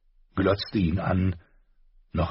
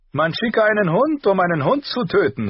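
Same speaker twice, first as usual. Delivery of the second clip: higher, louder gleeful cry; exclaiming prince; 13 semitones higher, 6 dB louder than usual. A narrator's reading. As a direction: call it out, delighted with the idea. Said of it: "rief er aus".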